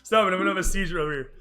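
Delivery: fast, breathless through laughter; can barely talk for laughing; laughing hard. Real, not acted. Cracking up at hype train.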